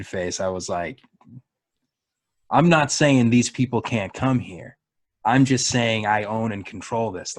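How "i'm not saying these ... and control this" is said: measured, drawn-out territorial claim; imitated slow-talking Southern guard; slow, deliberate explaining. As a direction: lay it out slowly and firmly. Retold Southern guard explaining his philosophy.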